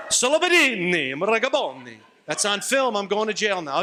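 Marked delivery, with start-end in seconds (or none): 0.1-2.0 hammed-up Italian gibberish; playful Italian babble; mock Italian. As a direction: fake Italian flourish. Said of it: "like the Godfather".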